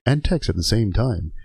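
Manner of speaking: deadpan instructional parody; training video narrator. Acted. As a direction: lecture like a safety video voiceover.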